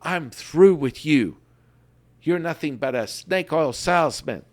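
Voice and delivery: fed-up kid quitting on his teacher, lightly acted; Daniel-san quitting on the old man, mildly hammed up; mock frustrated outburst. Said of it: "Daniel-san was like".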